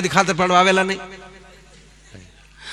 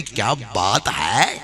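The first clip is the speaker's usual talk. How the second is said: slow relishing; 7 semitones lower, 4 dB quieter, much slower than usual. Retold or imitated. Bapu savours the kitchen stock.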